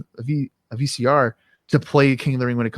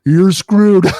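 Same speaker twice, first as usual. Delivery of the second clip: gleeful heel taunt, louder on the punchline; mock heel taunt; 7 dB louder, slower than usual. Lawler gloating to the camera at the kids, mock heel taunt. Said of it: "gone to the camera and say".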